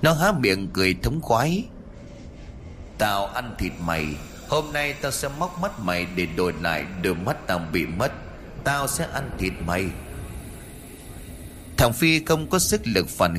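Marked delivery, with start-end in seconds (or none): 3.0-9.8 low, hushed menacing demon voice; a demon savoring its prey, kept quiet; gloating demon. Acted. Demon gloats to Phi, hushed and menacing.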